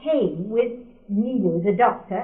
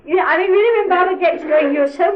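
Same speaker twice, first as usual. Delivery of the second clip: high, loud laughing words; 9 semitones higher, 8 dB louder than usual. Real, not acted. Recalling Baba prescribing liver pills for rabies, laughing high and loud. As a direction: laugh through the memory of the absurd cure.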